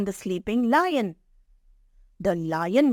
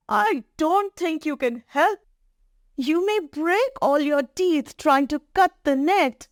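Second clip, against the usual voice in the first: lightly voiced lion, pitched up; doubtful trapped lion; 5 semitones higher than usual. Trapped lion doubting the mouse can help, worried. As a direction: fret that the mouse cannot help.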